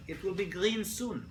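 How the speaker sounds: slow, laughing through the words; laughing mock driver. Teacher laughing as an Israeli driver waiting at red. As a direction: chuckle while reassuring yourself. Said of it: "It's like".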